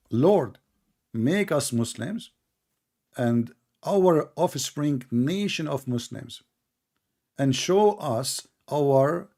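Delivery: very slow, deliberate verse reading; reading scripture aloud. Real, not acted. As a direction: read the prayer out with long, drawn words. Reads Quran verse aloud.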